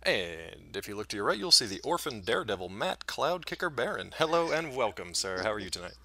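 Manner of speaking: lightly voiced airline pilot; a hint of a pilot on the intercom. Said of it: "an intro to be pilot voice".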